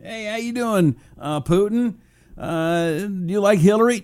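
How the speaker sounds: a hammed-up hint of Trump; bad Trump impression. Host plays Trump asking Putin a favor, bad Trump impression. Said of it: "I don't do a very good Trump".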